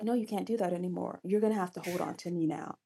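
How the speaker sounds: lightly voiced hero, hushed and firm; softly laying down the law to her; quiet firm command. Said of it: "he's like".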